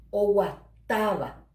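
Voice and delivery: o guataba slowly, TA stressed; stressed tonic A. Shown as a demonstration. Teacher shows the written accent, TA in o guataba stressed. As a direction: draw out o guataba, weight on the TA. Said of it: "vocal a".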